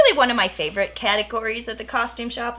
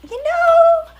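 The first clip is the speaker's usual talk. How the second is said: much higher, squeaked out; high squeaky voice; 9 dB louder than usual. Retold or imitated. Acted line to little brother.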